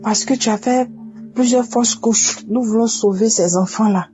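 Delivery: insistent doctor. Retold or imitated. Doctor warns mother she needs urgent cerclage, mildly insistent.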